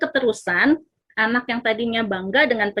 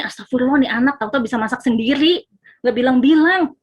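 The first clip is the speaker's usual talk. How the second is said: panicked parent; 2 semitones higher, 5 dB louder than usual. Retold or imitated. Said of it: "Walaupun mungkin kita panik nih".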